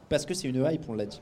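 choking a little mid-sentence; words caught in the throat; swallowed wrong way. Real, not acted. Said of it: "Excusez-moi, je m'étouffe".

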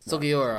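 "Sugiura" as su-gi-U-ra, falling at the end; model pronunciation. Shown as a demonstration. Host showing how the name is pronounced, clear falling "Sugiura". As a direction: model "Sugiura" plainly for someone learning it. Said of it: "I believe, is how it's pronounced".

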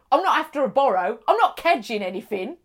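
imitating a Cockney woman's slang; lightly put-on Cockney reassurance. Cockney woman assures friend she wants nothing, Cockney. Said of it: "She's very Cockney".

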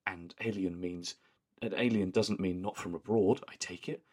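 lightly voiced prim deadpan line; a hint of Joan's flat posh tone; imitating Joan's deadpan. Friend imitates Joan's line, a touch of posh deadpan. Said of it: "just the way that she says it".

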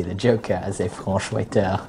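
put-on lapse into a comic French accent; lightly hammed-up French waiter accent; French-accented movie title; mock French accent. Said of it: "put on a racist French accent".

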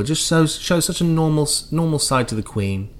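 mock-marvelling commentary, rising then hushed, with pauses; royal commentator. Commentator watching the Queen walk, mock wonder. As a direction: coo over every tiny event like TV coverage. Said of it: "royal commentators, you know, when".

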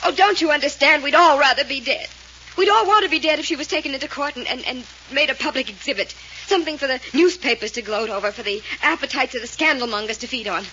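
loud, pleading outburst; desperate plea. Acted. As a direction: beg them with mounting desperation. Fay begs them to protect sister.

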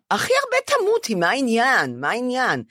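high, brusque mock friend; a friend waving off the panic; friend's blunt reassurance. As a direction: toss off her fear with a shrug. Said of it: "אמרה לי".

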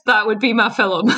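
Scottish vowel in "film". Real, not acted. Friend saying "film" with her Scottish accent. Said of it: "I love the way you say film. It's so Scottish".

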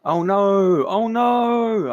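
loud, high drawn-out dismay; mock alarm. Mock dismay at story's peril.

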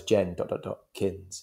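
"Jen dot dot dot Kins" slow, each piece set apart; slow, menacing break in the name; threatening split name. Retold or imitated. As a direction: spell out the pause between "Jen" and "Kins". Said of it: "it's so threatening".

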